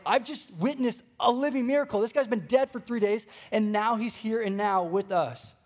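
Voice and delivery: fired up. Retold or imitated. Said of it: "you're fired up because you're like".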